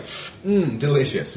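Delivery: high mock "Mm, delicious"; mock savoring. Mocking the character savoring the drink, high and hammy. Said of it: "But he's like".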